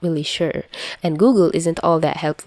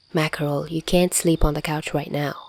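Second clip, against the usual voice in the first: raspy soft Chuya voice; 4 dB quieter than usual. Acted. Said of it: "his raspy voice is a bit harder to do".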